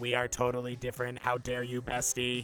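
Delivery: put-on mechanical robot voice. A robot character speaks in the game: robotic voice. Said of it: "hear the robotic voice again".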